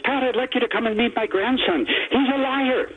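proud old granddad with a hint of Irish lilt. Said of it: "who's got some Irish accent in him".

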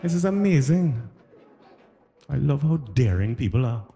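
put-on high-pitched Trinidadian accent; mock-amazed Trinidadian lilt; Trini wife. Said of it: "I married a Trini woman".

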